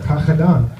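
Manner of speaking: "Graag gedaan" with throaty g sounds; guttural Dutch. Retold or imitated. Replying to cousin's thanks, guttural Dutch "Graag gedaan". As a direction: scrape both g's in "Graag gedaan". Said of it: "like I needed medical help".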